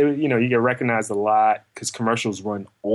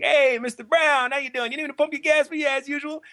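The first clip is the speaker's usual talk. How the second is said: high, eager attendant greeting; bright high service-guy voice; gas attendant voice; 13 semitones higher than usual. Retold or imitated. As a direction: lift the voice way up, cheerful pump guy. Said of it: "the gas attendant guy who's like".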